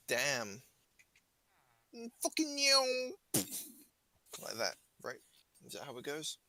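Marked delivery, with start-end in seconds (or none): 2.2-3.1 loud, high yell; shouted punchline. Acted. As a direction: belt the line out.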